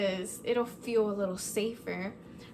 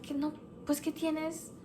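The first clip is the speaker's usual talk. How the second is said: questioning mom; 6 semitones higher than usual. Retold or imitated. Mom comes in asking what's wrong.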